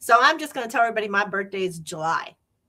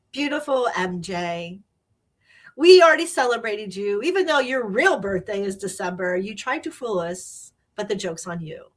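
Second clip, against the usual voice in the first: imitating proud sergeant; 3 dB louder than usual. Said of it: "he was so proud to say".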